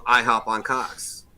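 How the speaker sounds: mock phone greeting. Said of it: "they used to answer the phone".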